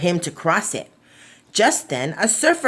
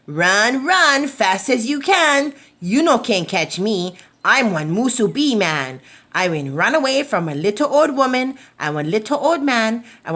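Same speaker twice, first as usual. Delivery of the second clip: louder teasing singsong; cheeky taunt; 4 semitones higher, 3 dB louder than usual. Acted. Musubi man taunting the myna bird, louder singsong. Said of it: "laughed and laughed".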